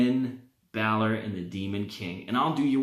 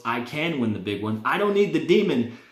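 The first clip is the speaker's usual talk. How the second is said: put-on lightly done Irish accent, rising higher and louder; bad Irish accent; 4 semitones higher, 4 dB louder than usual. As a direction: boast it in a hammed-up Irish accent. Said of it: "That's a terrible Irish accent".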